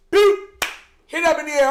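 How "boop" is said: imitated boop. Mimics a pass being thrown.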